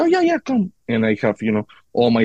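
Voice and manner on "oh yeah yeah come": high-pitched, eager retold invitation; eager welcome. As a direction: wave them in with a pitched-up voice.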